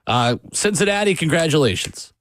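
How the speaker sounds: dry, mocking praise; sarcastic congratulations. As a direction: congratulate them with heavy sarcasm. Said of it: "This is as sarcastically as I can give you credit".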